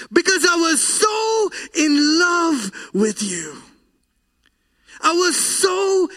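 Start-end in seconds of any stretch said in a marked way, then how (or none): 0.1-3.6 crying out. Acted. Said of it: "why are you crying?".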